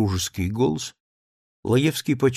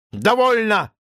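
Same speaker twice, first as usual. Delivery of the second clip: high, loud cry; cry of enough; 10 semitones higher, 5 dB louder than usual. A narrator's reading. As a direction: snap it off sharply. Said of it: "Довольно! повторил Лаевский". (резкий возглас)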